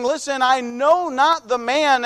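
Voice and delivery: slowed retold denial, leaning on "not" in "I know not the man"; mildly insistent, deliberate "I know not the man"; emphatic denial. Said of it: "emphatically three different times".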